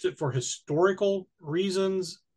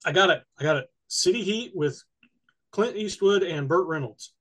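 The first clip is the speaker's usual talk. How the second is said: eating chocolate; 2 semitones higher than usual. Real, not acted. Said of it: "I just put chocolate in my mouth".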